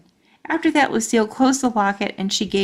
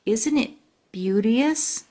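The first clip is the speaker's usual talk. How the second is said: hushed admiring; 2 semitones higher, slower than usual. Acted. Lucille admiring her locket.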